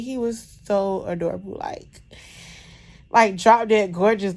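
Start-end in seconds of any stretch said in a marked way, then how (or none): 3.1-4.4 gushing. Real, not acted. Mother describing her newborn, slow loud gushing. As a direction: savor every word, louder.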